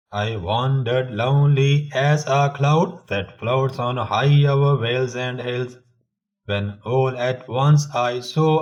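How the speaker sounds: measured poem recital with lifted line endings; rhythmic recitation. Shown as a demonstration. Reciting Wordsworth's Daffodils poem to listeners, in measured rhythm. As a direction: recite it in rhythm, slowly and clearly projected. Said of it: "recite this poem in rhythm".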